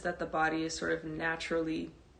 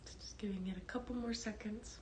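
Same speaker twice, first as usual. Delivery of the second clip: hushed class welcome; 16 dB quieter, faster than usual. Real, not acted. Teacher waiting for live students to join before meditation, hushed. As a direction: speak gently and quietly, as if settling the room.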